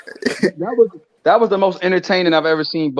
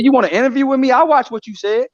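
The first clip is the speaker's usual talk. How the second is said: mock Bud menacing; 7 semitones higher than usual. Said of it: "he said".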